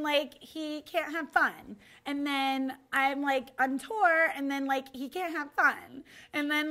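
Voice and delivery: a lightly voiced whiny pop star; pop star impression. A pop star whining to a therapist, in a lightly put-on whiny voice. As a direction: complain like a bored, spoiled pop star. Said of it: "a pop star and Russell Brand".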